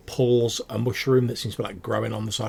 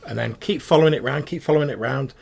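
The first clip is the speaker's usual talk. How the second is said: goblin giving directions; 2 semitones higher, 5 dB louder than usual. Acted. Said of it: "He's like".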